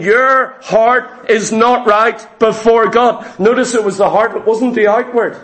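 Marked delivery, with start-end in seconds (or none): 0.0-3.2 slow, deliberate retold rebuke; measured retelling of a pointed accusation; staring accusation. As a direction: spell out the verdict slowly, as Peter confronting him. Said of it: "staring at him, saying".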